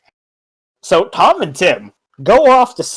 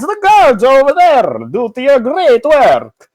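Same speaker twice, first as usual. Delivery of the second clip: light mock Italian accent, a touch higher; hammed-up Italian accent; 3 semitones higher than usual. Kells reassures Bjorn in a light mock Italian accent. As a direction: play a lightly Italian innkeeper. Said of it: "having an Italian accent".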